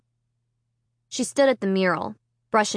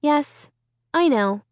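calm; 6 semitones higher, slower than usual. A narrator's reading. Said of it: "Sarah replied calmly".

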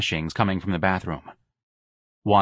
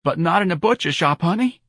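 heavy with grief; 9 semitones higher than usual. A narrator's reading. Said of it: "her voice heavy with grief".

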